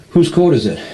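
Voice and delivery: high, loud quizzing of a friend; urgent prompting. Retold or imitated. Coaching a panicking friend against the clock, urgent prompting.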